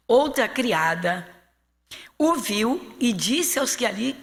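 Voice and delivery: emphatic, deliberate Bible narration; dramatic scripture reading. Acted. Pastor reads Peter's second denial, emphatic deliberate delivery. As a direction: read it out with force, leaning on key words.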